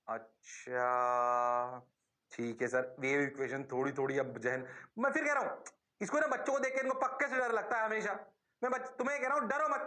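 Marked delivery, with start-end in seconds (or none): 0.1-4.7 hesitant student. Acted. Teacher voices students half getting the wave equation, low and hesitant.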